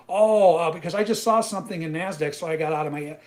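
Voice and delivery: high, loud, flustered mock excuse. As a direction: fake a lame excuse. Mocks trader's excuse.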